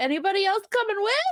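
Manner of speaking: high-pitched yelling. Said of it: "I'm gonna yell back".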